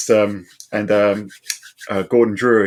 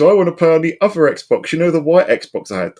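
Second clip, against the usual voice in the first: high-pitched mimicked little girl; young daughter; 8 semitones higher, 4 dB louder than usual. Daughter asking dad for the other console, imitated high child voice. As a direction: plead lightly like a child to dad. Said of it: "and she goes".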